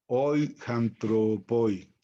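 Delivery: slow "hoy antropoi" with an h sound before "antropoi"; aspirated breathing. Shown as a demonstration. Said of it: "por cómo trae el espíritu". ("antropoi" con hache aspirada, despacio)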